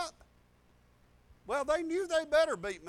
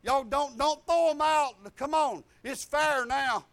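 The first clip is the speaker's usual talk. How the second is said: retold yell; 3 semitones higher, 7 dB louder, slower than usual. Retold fight, calling out attackers.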